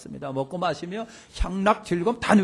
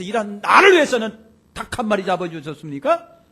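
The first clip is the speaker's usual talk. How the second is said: retold indignant outburst, higher and building louder; mock-aggrieved protest, building in force; seething defiance; 4 semitones higher, 5 dB louder than usual. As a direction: act out a son hotly confronting his father. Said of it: "속이 끓여갖고 아버지한테 막 대드는 거예요".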